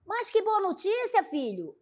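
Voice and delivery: a mother's delighted exclamation, pitched high on que; happy mother. Acted. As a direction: read it as a joyful mother hearing good news. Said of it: "a mãe também ficou alegre".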